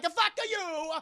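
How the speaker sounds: high, loud mock disbelief; mock shocked retort. Doctor Boopy reacting to Mussolini's threat, mock shocked. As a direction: fire it back in shock.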